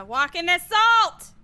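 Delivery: loud, high, drawn-out command; shouted order. Real, not acted. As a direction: call it out forcefully. Calling out an order in game.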